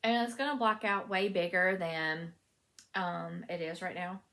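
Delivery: fiber in the mouth; mouth full. Real, not acted. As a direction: talk around fiber in the mouth. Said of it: "I've got fiber in my mouth".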